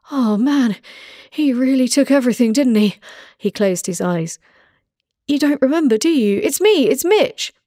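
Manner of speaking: high, strained begging voice; pleading captive. Acted. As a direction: beg an old friend for help. Captive pleading, revealing his name.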